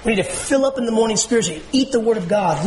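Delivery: ordinary talk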